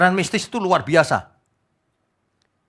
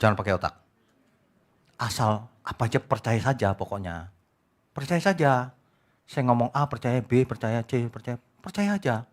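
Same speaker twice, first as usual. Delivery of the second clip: mock church leader; 4 semitones lower, 6 dB quieter than usual. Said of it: "dikatain gini".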